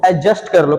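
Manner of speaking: low-pitched एडजस्ट with silent D; correct pronunciation. Shown as a demonstration. Teacher models the right form for students, correct pronunciation. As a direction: glide straight into "j" in एडजस्ट, no "d". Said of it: "silent रखना है".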